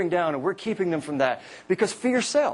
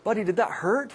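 lightly mocking question to a child, pitched higher; higher, patronizing retold question; condescending parent; 5 semitones higher than usual. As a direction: talk down to a little kid. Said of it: "which is a condescending jerk".

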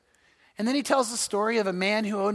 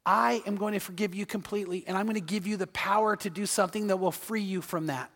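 soft promise; 5 dB quieter than usual. Acted. God's promise voiced.

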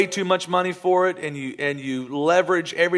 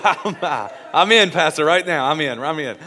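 laughing, louder and eager; 4 dB louder than usual. Acted. Congregant to pastor, eager and laughing. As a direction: jump at the offer.

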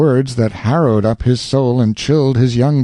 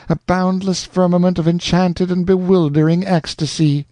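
put-on rapturous young woman; 5 semitones higher than usual. Rosanna's rapturous love speech.

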